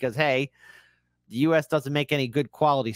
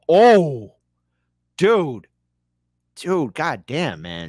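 surprised; 3 dB louder, much slower than usual. Real, not acted. Reacting to chat comment.

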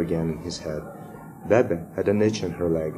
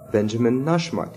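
"Benjamin Nushmat" repeated a bit higher; repeated, a little firmer; 4 semitones higher than usual. A narrator's reading. Pupil repeating "Benjamin Nushmat" for the teacher, raised and a little firmer. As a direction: say "Benjamin Nushmat" over, slightly more insistent. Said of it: "he repeated".

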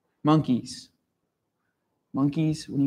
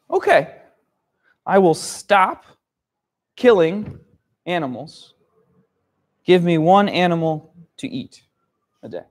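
lion agreeing. Acted. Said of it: "And the lion says".

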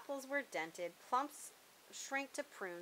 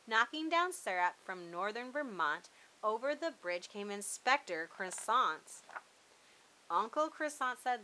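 put-on lively read-aloud for children; animated storybook narrator; story narration. A narrator's reading. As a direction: read it like a bedtime picture book. Reads picture book aloud.

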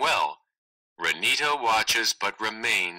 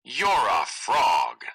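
stopped cold; slower than usual. Acted. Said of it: "stops cold".

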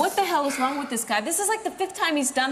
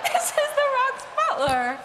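laughing mockery; 11 semitones higher, 4 dB louder than usual. Real, not acted. Mocking Booker as Rock's butler.

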